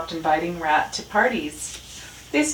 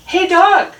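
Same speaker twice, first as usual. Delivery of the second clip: high, loud shout across the yard; calling out; 13 semitones higher, 11 dB louder than usual. A narrator's reading. Rat hails Dog from his crate, calling loudly. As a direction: yell to get Dog's attention. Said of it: "Rat called".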